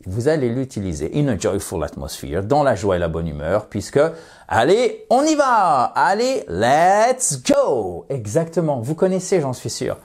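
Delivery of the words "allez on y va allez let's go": high, bright rallying cry; rally the group with a cheer; excited cheer. Shown as a demonstration. Teacher cheers on the class in a joyful mood.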